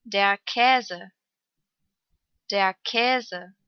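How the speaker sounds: long ä in "Käse". Shown as a demonstration. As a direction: draw out the ä of "Käse". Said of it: "Lang ausgesprochen".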